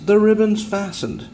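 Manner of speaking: the guy on the ground shouts up to the porch; calling back up. Retold or imitated. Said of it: "the guy on the bottom says".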